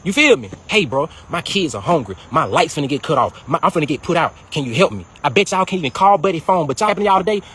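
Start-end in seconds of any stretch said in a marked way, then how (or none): 0.7-5.1 lower, whiny imitation of a broke friend pleading; mock begging. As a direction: play the needy friend asking for money, a bit pathetic. Mocking someone begging for help.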